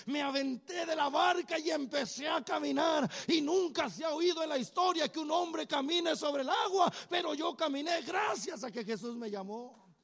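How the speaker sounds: loud, triumphant proclaiming as Peter; exultant shout. Acted. Peter tells Paul he walked on water, loud and triumphant. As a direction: shout it like a proud fisherman telling his feat.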